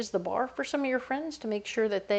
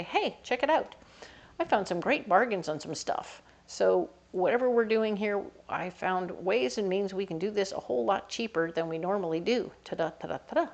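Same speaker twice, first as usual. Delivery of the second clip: thrifty queen. Acted. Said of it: "The Queen of Pentacles is gonna say".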